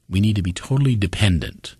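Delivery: "totally dependent" leaned on; stress on TOTALLY DEPENDENT. Shown as a demonstration. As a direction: put the emphasis on "totally dependent". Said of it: "There's the emphasis".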